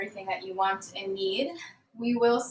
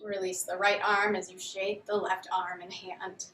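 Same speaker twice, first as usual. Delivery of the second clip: calm, measured yoga instructor voice; guided yoga. Real, not acted. Yoga teacher leading students through a grounding warm-up, calm guided delivery. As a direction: guide them gently through each movement, leaving long pauses.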